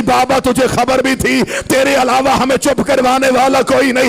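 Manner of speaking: chanted grieving reproach, drawn out; tearful plea. Acted. Zainab crying to her father beside her mother's bier, acted tearful plea. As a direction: plead with the father in a mournful chant. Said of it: "रो के कहती".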